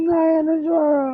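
real tearful refusal; weepy, insistent protest; crying. Real, not acted. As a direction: refuse through tears. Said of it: "please, কেঁদো না".

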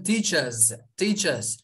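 teachers kelimesinin sonu yumuşak z sesiyle, tıslamadan; teachers: sondaki s'yi z gibi söyle; teacher çoğul okunuşu. Shown as a demonstration. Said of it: "Yani ünlü bir ses". (teachers sonu z sesiyle)

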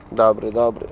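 calm the dog down gently; soothing the dog. Real, not acted. (łagodne, niższe uspokajanie psa)

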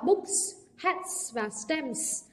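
"Books", "hats", "stamps" ending in a hissed s; voiceless S endings. Shown as a demonstration. Teacher modelling plurals for students, "Books", "hats", "stamps" with hissed endings. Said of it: "sẽ được đọc là s".

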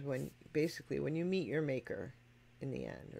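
a lightly softened, hushed paraphrase of the song line; quiet retelling. Retold or imitated. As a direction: drop the voice a little, as if passing on a solemn last word. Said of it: "very quietly, he says".

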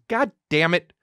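restrained imitation of dad's cursing; mild mock anger; mad dad. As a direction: curse like an exasperated father. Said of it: "when my dad's mad, he just goes".

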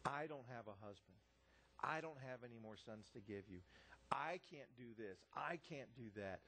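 low-pitched, mildly self-pitying complaint; imitated self-pity. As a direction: voice her refusals as a lightly mocked pity party. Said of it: "wrapped up in selfishness and self-pity".

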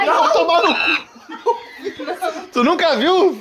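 high, laughing mock protest; laughing outburst. Real, not acted.

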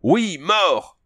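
« Oui » lancé très haut, puis chute; cri de foule assoiffée. Acted. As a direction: gronder comme une foule avide de sang. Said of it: "répétèrent cinq cents voix assoiffées". (cinq cents voix crient leur réponse à Conan)

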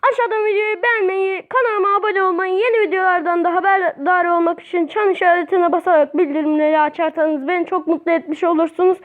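rapid recited outro spiel; quick, rote YouTuber sign-off; subscribe plug. Real, not acted. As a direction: reel off the channel plug in one run. Reels off subscribe request.

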